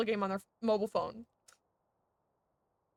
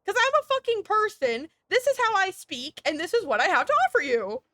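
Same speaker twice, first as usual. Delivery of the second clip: defiant imagined reply; 2 semitones higher than usual. Retold or imitated. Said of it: "What if I say".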